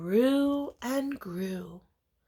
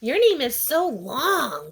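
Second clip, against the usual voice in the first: teasing; 4 semitones higher, 6 dB louder than usual. Acted. Classmate teasing.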